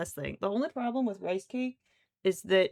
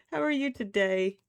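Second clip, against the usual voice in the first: pet voice; 6 dB louder than usual. Real, not acted. Sweet talk to the pet.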